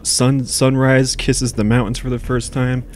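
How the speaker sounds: slow dreamy commercial read. Pretend. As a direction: sell it like a coffee ad. Parody coffee ad read.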